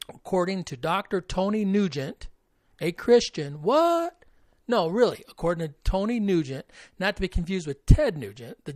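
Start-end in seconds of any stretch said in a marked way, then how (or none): 3.6-4.3 high, loud incredulous what; high-pitched comic double take; mock shock. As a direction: feign loud disbelief, pitch shooting up. Mock shock at a Christian scholar.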